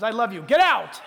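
lovingly. Retold or imitated. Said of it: "he says that lovingly".

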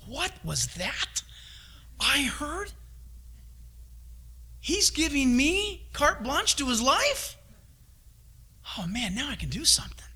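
lightly voiced eager God; a hint of God rubbing his hands; voicing God. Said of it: "'Cause God says".

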